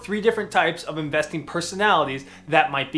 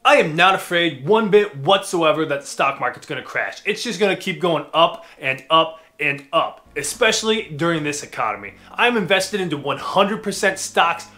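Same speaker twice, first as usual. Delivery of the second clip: pumped-up bro investor. Acted. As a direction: sell it like a swaggering trader. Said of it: "the aggressive investor".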